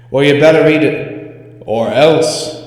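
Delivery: loud mock threat. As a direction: lean in and threaten, playing. Threatening the doll.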